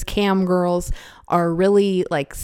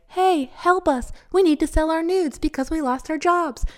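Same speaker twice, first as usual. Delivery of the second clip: mock pleading newbie; 8 semitones higher than usual. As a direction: drag it out like a helpless beggar. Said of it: "all these baby hoes are like".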